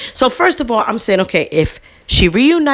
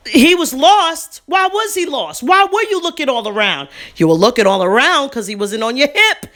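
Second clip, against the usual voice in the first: heated scolding; 4 semitones higher than usual. Retold or imitated. Confronting the negligent mother.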